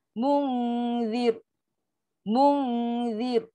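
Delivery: "Munzir" with long hummed "Mun" and thin final r. Shown as a demonstration. Teacher demonstrates the thin ra to students, light ending. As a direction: stretch the nasal in "Munzir", end on a light "zir".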